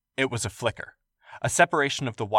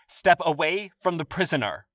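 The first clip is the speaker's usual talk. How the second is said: bellowing; 8 semitones higher than usual. Acted. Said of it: "a guard bellowed".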